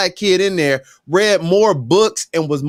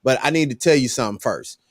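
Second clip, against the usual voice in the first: calm correction, pitched low; a steady talking-to for the server; firm, lower lecture; 5 semitones lower than usual. Retold or imitated. Customer lowers voice to lecture the young waiter, firm and calm. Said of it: "I said, "Young man".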